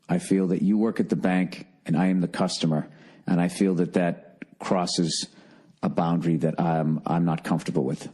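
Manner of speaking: measured, low, courteous refusal, slowing toward the end; politely firm. Acted. Customer redoing his talk to the banker, politely firm. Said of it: "I guess what I should have said".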